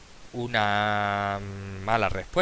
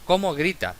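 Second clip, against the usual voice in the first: "¿Cómo grita?" exclaimed, higher and louder; exclamation; 6 semitones higher, 5 dB louder than usual. Shown as a demonstration. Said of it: "es una oración exclamativa".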